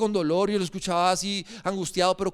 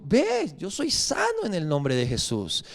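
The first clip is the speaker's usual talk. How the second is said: slow, laid-back assurance; unbothered father; 3 semitones lower, slower than usual. Retold or imitated. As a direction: shrug off the worry, unhurried. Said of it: "él es fresco".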